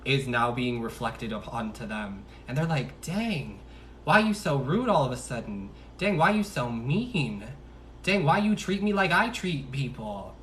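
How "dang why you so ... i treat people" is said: high, loud, swooping complaint; mock indignant. Partner complaining about getting treated the same, mock indignant. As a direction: play-act being wounded and affronted.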